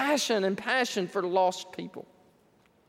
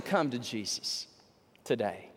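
altar call; 6 semitones lower than usual. Real, not acted. Preacher's lowered invitation.

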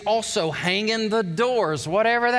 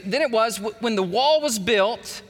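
slow reading. Shown as a demonstration. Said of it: "this way, he goes".

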